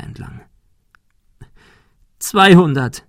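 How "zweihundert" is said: high, loud tearful plea; crying. A narrator's reading. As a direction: blurt it out through tears. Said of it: "weinte sie". (weinend, hoch und laut)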